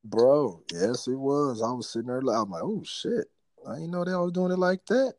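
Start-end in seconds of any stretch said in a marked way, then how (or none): 2.6-5.1 high-pitched, impressed surprise; mock astonishment. Friend retelling what he found on Twitter, amazed. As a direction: act out a delighted double take, pitched up. Acts out his surprised reaction.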